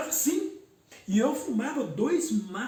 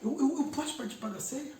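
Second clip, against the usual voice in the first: choked-up, pleading, higher-pitched retelling; tearful plea; 5 semitones higher than usual. Retold or imitated. Begging brother César for communion, choked up with tears. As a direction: relive the tearful plea half-voiced. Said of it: "ainda chorando, engasgado".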